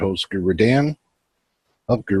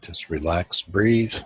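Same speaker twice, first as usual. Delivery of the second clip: measured meditation guide with long pauses; unhurried guiding voice, pausing between instructions; guided meditation. Acted. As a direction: lead them inward phrase by phrase, leaving room to breathe.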